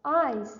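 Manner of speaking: "eyes" with the long I stressed; stress on vowel. Shown as a demonstration. Teacher showing students the long I, stressed vowel in "eyes". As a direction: lean on the I before the final s in "eyes". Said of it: "आई और स के बीच में हमने stress दिया है".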